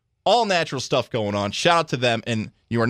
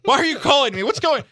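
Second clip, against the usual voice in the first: high, panicky, suspicious answering; startled shrill phone pickup; panicked high voice; 13 semitones higher than usual. Retold or imitated. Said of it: "I thought she was the police".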